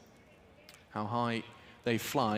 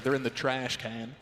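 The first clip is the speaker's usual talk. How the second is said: mock American accent on "trash can"; "trash can" in a lightly put-on American accent. Shown as a demonstration. British caster correcting himself for American viewers, in a mock American accent. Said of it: "Is that your American accent?".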